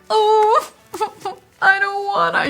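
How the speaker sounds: high, laughing mock whine; whining. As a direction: whine like a reluctant kid, half laughing. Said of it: "literally whining, kinda crying".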